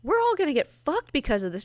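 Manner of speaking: high, loud mock-furious yelling; hammed-up outrage at Moira; angry mutants. Destiny and Mystique telling Moira off, mock-furious. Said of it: "they're like".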